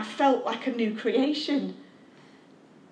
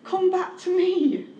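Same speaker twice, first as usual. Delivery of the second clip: higher, earnest plea; God repeating the call, higher and pleading; God's pleading call; 5 semitones higher than usual. Acted. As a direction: lift it up into an appeal. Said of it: "And God wants to say to you tonight".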